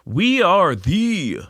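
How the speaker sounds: high, very slow name reveal; drawn-out announcement. Acted. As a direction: stretch it out as a grand announcement. Grandly announcing the new show name.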